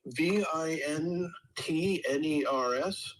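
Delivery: spelled slowly letter by letter, V I N T N E R S; slow letter-by-letter spelling of V I N T N E R S. Shown as a demonstration. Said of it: "What was the actual, ... the spelling of".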